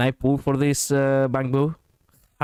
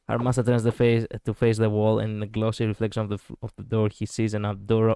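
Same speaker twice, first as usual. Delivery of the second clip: reading story narration aloud; measured storytelling read-aloud; game narration; 3 semitones lower than usual. A narrator's reading. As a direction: narrate the scene in an even voice. Reads the game's narration aloud.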